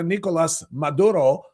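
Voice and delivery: mocking Spanish-accented pronunciation of Maduro. Host mimics broadcasters saying a Venezuelan name, Spanish accent. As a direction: say the name with exaggerated Spanish vowels and tapped r. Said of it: "I hate when they freaking do that".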